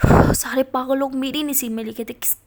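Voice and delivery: loud, fed-up exclamation; exasperated outburst. A narrator's reading. Ishani fuming to herself about the meddling teacher, loud. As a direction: vent your frustration to the air.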